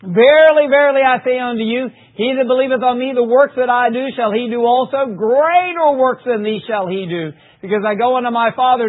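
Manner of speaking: loud, ringing scripture read. Acted. Preacher reading John to the congregation, proclaiming.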